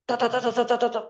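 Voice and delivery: imitating a wife nagging, tat tat tat; mock nagging chatter. Preacher mimics a wife scolding her husband, quick mock chatter. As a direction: rattle off the nagging sounds playfully. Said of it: "ngocehin dia".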